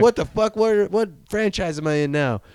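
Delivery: mock baffled hero; incredulous. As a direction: act baffled at the crossover. McConaughey confused by the fleet.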